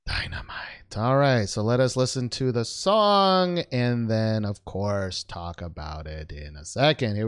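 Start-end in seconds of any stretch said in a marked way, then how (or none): 0.0-1.0 echoing whisper. Real, not acted. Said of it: "host echoes the song title".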